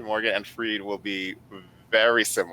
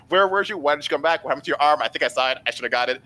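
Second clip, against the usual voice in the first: pitched-up volley of eager questions; rapid-fire questions; 5 semitones higher, much faster than usual. Acted. Player as character yelling lots of questions at Jojen, rapid-fire. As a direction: fire them off without waiting for answers. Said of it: "just rapid fire".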